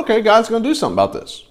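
a quick, eager lift in the voice; hopeful Moses. Pretend. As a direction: Moses perking up at God's promise. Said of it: "you're like".

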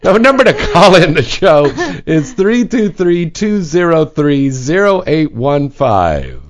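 playfully tipsy, slurring a little; getting drunker. Pretend. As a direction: act a bit drunk on air. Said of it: "like, so drunk right now".

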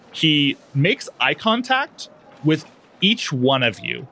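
ordinary talk

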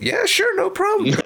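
very high, loud squeal of fake cheer; overly bright mock-happy agreement; exaggerated eager yes. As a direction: squeal yes with sarcastic glee.

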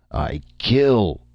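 high, loud caveman threat; brutish threat. A narrator's reading. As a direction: threaten like a caged brute. Caged brute threatening.

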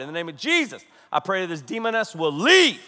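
hammed-up prayer command with leaping key words; hard praying. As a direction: hit Jesus and leave hard. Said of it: "that hard".

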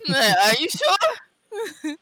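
slow, high, whimpering mock cry; mock pained plea. Caught in the clutch, whimpering a slow high plea. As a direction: beg like it hurts, dragging it out. Imitating wrestler in pain.

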